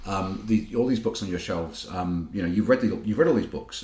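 bad Italian accent. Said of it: "I'm gonna do a very bad Italian accent now".

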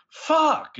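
high-pitched drawn-out curse; hammed-up cry of frustration; mock yell. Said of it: "and then she yells".

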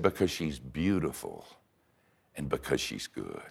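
soft, broken-down answer; hushed confession. Retold or imitated. Woman confessing to her pastor about her sister, very soft. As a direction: let it fall away almost to nothing. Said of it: "And she said".

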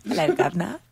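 lightly put-on British "guvnor" greeting; mock British accent. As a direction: greet them like a caricature Brit, British accent. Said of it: "British people just being like that".

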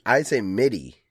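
"midi" with short i, as in middle; short-i pronunciation. Shown as a demonstration. Co-host answering how he says it, "midi" with short i. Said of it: "like in the middle".

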